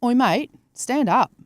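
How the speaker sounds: slow, lightly voiced bossy watch; a hint of a cheeky Aussie gadget nagging. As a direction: watch telling its owner to get up. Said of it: "it goes".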